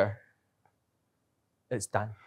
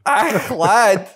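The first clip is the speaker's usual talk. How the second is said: loud, high Irish "Ach, lad."; Irish brogue; 11 semitones higher, 9 dB louder than usual. Pretend. Showing how his brogue really sounds: loud Irish brogue. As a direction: belt it out in a thick brogue. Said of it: "My brogue".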